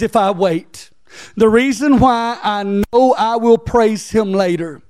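preaching that climbs to a high-pitched peak; building sermon fervor. Real, not acted. Preacher urging the church to wait on God, building fervor. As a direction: build from firm declaration to high, ringing conviction.

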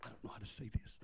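softly whispered aside. Real, not acted. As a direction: breathe it out almost unheard.

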